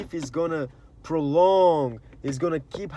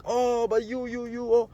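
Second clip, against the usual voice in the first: higher, flustered other guy; other person stammering; 8 semitones higher than usual. Retold or imitated. The other person in the fight sputtering back, higher and flustered. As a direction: squeak out a flustered protest. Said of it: "and the person's like".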